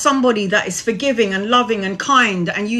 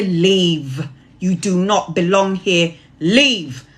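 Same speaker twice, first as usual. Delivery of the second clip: prayer of cleansing. Acted. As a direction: call on the angels, then banish firmly. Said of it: "And I say".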